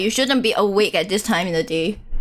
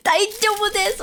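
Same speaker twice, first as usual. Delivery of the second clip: character catchphrase; 10 semitones higher than usual. Pretend. Repeating the catchphrase, high pitched.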